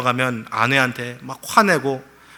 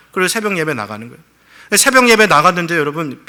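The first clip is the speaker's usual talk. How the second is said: usual speaking voice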